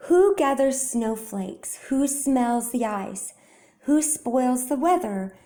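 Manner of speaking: measured, slow poem recitation; recited from a stage. A narrator's reading. Frederick recites his poem to the mice, slow and measured. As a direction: declaim gently like a poet on stage. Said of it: "as if from a stage".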